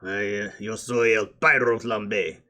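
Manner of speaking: lightly put-on muddled foreign accent; a hint of a bad, placeless foreign accent; El Pyro Flambe. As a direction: introduce yourself in a mild mock multilingual accent. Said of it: "he mixes them up when he's talking".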